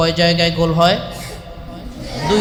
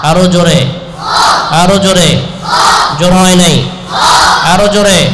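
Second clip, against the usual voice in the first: teacher calling out loudly for more volume; teacher urging students to say it louder; 7 dB louder than usual. Real, not acted. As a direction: push the class, loud and firm. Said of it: "জোরে বলতে হবে আমার সাথে".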